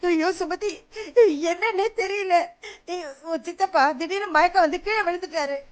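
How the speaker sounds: tearful words to the niece; crying. Acted. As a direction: sob the words out. Wife crying on phone to niece. (அழுகையுடன் பேச்சு)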